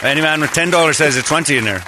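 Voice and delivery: light put-on Irish accent; Ray. Trainer upping the loan request, light Irish accent. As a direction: play the Irish cadger lightly. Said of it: "He turns Irish".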